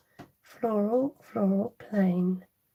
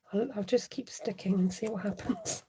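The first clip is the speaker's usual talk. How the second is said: whispered aside; 6 dB quieter than usual. Real, not acted. Muttering to herself while crafting.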